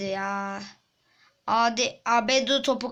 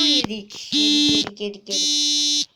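frustrated outcry; 3 semitones higher, 3 dB louder than usual. Real, not acted. Goal conceded, repeated outcry.

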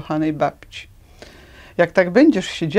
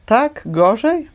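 incredulous, drawn-out echo; 6 semitones higher, 4 dB louder, much slower than usual. Acted. Duckling echoing the travellers' worry, high and slow. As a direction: stretch gorzej high and slow, rising. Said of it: "tłumaczył się malec".

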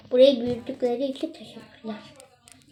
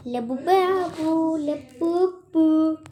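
drawn-out calling; 3 semitones higher, much slower than usual. Pretend. Calling the game monster.

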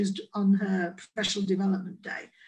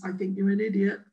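blunt inner meaning; 3 semitones lower than usual. Retold or imitated. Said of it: "what I really mean is".

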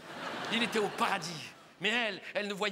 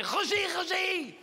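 melodramatic lovestruck woman; 6 semitones higher than usual. Acted. Oula calls up to Roger's balcony, melodramatic lovesickness. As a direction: declaim star-crossed love, hammed up. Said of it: "elle était comme ça, elle faisait".

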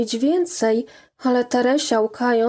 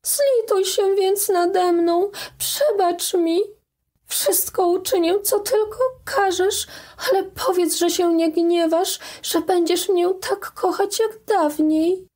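put-on pleading young girl; 8 semitones higher than usual. A narrator's reading. Daughter begging her mother's forgiveness, tearful high plea. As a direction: beg with everything you have.

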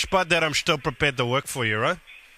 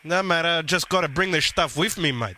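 Guido prank character. Acted.

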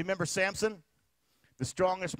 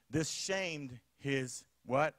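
call for response; 4 semitones lower, much slower than usual. Acted. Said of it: "call and response".

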